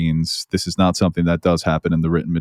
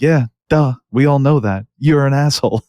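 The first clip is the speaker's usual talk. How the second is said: higher-pitched, dismissive mock retort; mock exasperation; 7 semitones higher than usual. Podcaster voicing Rhaenyra's reaction to the scene, mock exasperated. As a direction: voice an unimpressed character's obvious-news comeback.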